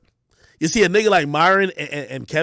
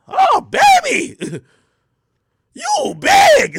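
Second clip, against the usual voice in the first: high, loud, slow doting mama voice; mama's greeting; 5 dB louder, much slower than usual. Retold or imitated. Mom greets her son about his weight, high slow doting coo. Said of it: "the first comment I get is".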